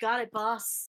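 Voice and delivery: snarky tone with a laugh. Voicing a character answering the boss with a snarky laugh: snarky laughing reply. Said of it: "does, like, a snarky laugh and goes".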